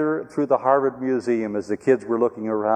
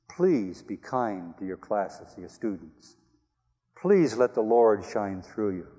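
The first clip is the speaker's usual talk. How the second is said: gentle pleading; 2 semitones lower, 3 dB quieter, slower than usual. Retold or imitated. Pleading with the professor.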